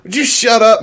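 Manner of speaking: high, loud exasperated hiss-shout; hushing son. Retold or imitated. Father hushing his son in the theater, loud and high. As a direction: shut him up, loud and high. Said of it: "I'm like".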